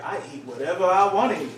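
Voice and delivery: bold, matter-of-fact grandma; sassy grandma quote. Retold or imitated. Grandma answering her grandson with sass. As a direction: say it like nobody can tell you otherwise. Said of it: "this is how she said it".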